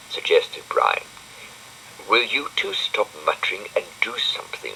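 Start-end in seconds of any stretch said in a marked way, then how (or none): none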